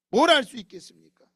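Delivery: "뭘 할 수 있겠습니까?"를 훨씬 크게 내지르며 "할"에 힘을 줌; 답답함이 폭발하듯 외쳐; 터지는 항변. Acted. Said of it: "항변하고 있는 거예요". (교회 신자의 하소연, 크게 내지르는 항변)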